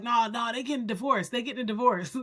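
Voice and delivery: a hint of an eager kid insisting; friend's fake claim. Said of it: "he used to be like".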